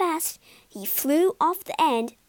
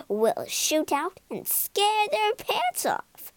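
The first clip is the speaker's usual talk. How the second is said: high, slow, a touch of giggle; scheming ghost, lightly amused; mock laughing ghost; 7 semitones higher than usual. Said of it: "laughed Digby".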